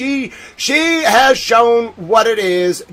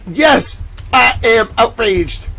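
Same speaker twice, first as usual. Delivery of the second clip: mock outrage; 5 semitones higher, slower than usual. Host answering his own question in mock outrage, hammed-up shout. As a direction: play at being furious.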